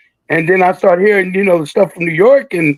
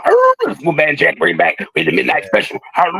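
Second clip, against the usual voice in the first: imitating Wolfman Jack. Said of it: "Wolfman Jack going".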